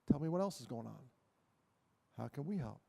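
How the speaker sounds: soft, low caring voice; gentle reassurance. Retold or imitated. Counsellor to suicidal boy on the phone, soft and caring. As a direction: coax him gently to open up.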